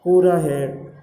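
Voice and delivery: ज तो आधा है said slowly and deliberately; slow explaining. Shown as a demonstration. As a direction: lay each part out slowly for students. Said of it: "आपको ये भी पता होना चाहिए". (धीमे, स्पष्ट शिक्षक स्वर)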